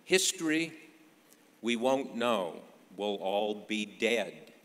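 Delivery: retold shrug, opening big and ending drawn out; throwing up hands. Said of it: "threw 'em in the air and said".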